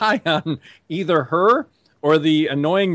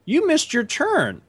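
high, slow nagging imitation of the wife; exasperated wife mimicked in a high drawn-out voice; wife's high mock voice; 13 semitones higher, slower than usual. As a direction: play the wife, pitched way up and drawn out. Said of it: "She's like".

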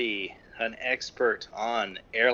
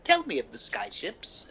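put-on raised, earnest old-fashioned boy; wide-eyed boy from olden days begging a story; old-timey voice; 6 semitones higher than usual. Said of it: "give him an old-timey voice".

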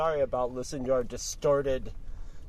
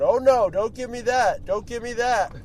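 higher, louder mock scolding; mock angry; 7 semitones higher, 5 dB louder than usual. Retelling the woman yelling through the car speakers, mock scolding. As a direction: snap back at him, hammed-up. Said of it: "you hear going".

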